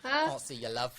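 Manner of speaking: high, slow mock Cockney; amused East End impression, drawn out; East End accent. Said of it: "an East End accent".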